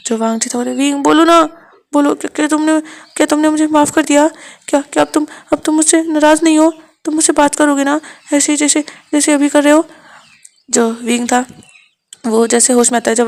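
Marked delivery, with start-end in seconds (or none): 0.7-9.9 hurt lover, raised pitch, a little louder; Wang ji's voice. Acted. Wang ji amazed that Wing is talking to him, pleading. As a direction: ask it half-accusing, half-hopeful.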